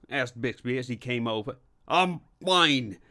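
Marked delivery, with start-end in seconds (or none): 1.9-3.0 raised, higher pained retort; shouted. A narrator's reading. Hurt inspector to his colleague, shouting back. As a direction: snap back through the pain. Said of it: "he shouted".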